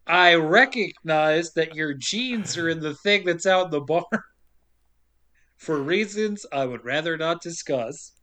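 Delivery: carefully word an awkward confession; mock-formal restart. Brody starting over with Polly about the jeans, mock-formal. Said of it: "let me start this a different way".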